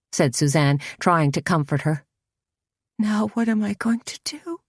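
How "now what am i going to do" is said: tearful, higher plea; sobbing. A narrator's reading. A girl sobs to Suzanne, asking what now, tearful. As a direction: speak through tears, lost. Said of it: "sobbed Lydia".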